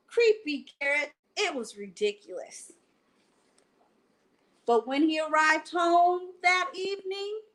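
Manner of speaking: reading a bedtime picture book aloud; lively read-aloud to children; story narration. A narrator's reading. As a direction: tell it like a bedtime story for kids.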